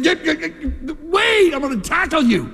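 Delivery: high, excited mock call to stop; teammate yelling. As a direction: shout after a runner going the wrong way. Buddy chasing Roy in story.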